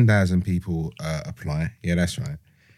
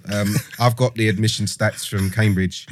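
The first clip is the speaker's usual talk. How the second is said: geezer voice. Pretend. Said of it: "the kind of geezer voice".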